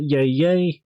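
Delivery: a light take on the rapper's "yay, yay" ad-lib; half-hearted copy of the hype call; imitating the ad-lib. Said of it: "what other rapper ... does that?".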